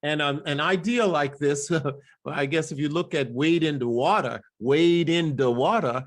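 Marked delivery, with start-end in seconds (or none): 3.3-6.0 "Water" as "watah", "the" as "duh"; spiritual dialect. Shown as a demonstration. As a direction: drop the R of "Water". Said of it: "you would hear all of that dialect".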